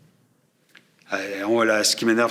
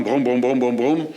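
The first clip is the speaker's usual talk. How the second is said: "brum brum" mimicking mic rumble; quick run of imitated rumbles; imitated handling noise. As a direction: mimic a hand rumbling on a microphone. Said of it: "le bruit de sa main sur le, le microphone".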